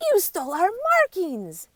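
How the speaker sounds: high, loud angry yell. A narrator's reading. Other animals yelling at the warthogs, loud and high. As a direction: shout the accusation at the thieves. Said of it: "yell the other animals".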